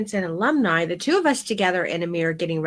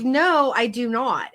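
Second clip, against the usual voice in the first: indignant insistence; 3 semitones higher, 3 dB louder, slower than usual. Retold or imitated. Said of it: "I was like".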